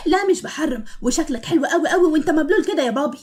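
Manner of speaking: cheeky words through laughter; boy laughing at his soaked father, cheeky; laughing tease. Acted. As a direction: tease dad while laughing. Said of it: "بيضحك بصوت عالي".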